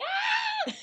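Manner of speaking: put-on a sudden, very high baby shriek; imitated baby squeal. Mimicking a baby meeting the Pope, very high squeal. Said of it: "getting past the Pope is like".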